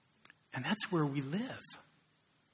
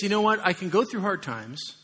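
John pleading; 5 semitones higher, 6 dB louder than usual. Retold or imitated. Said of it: "he says".

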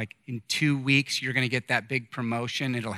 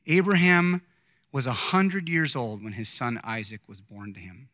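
measured, solemn Bible reading to the congregation; scripture reading. Acted. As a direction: read the verses steadily, letting each clause land. Reads scripture aloud.

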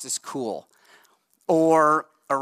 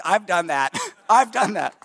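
eager admission; 6 semitones higher, 4 dB louder than usual. Retold or imitated. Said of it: "the guys are like".

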